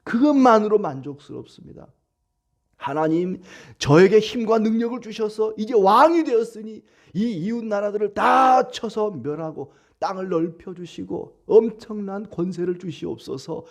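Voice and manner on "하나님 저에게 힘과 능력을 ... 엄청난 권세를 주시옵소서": greedy petition. Retold or imitated. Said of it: "이렇게 간구하지 않습니다".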